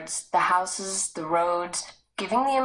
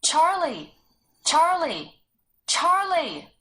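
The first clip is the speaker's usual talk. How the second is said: loud, high calls, wavering on the last; calling near tears; 9 semitones higher, 3 dB louder, slower than usual. Acted. Sarah calling her lost brother, loud calls near tears. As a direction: shout his name, close to crying. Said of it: "a waver in the last syllable".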